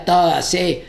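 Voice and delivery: tight, hard-hit mock harshness; pronunciación tensa. Shown as a demonstration. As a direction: hit each word hard, without loosening. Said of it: "aflojo la pronunciación para que no sea". (pronunciación dura y tensa, sin aflojar)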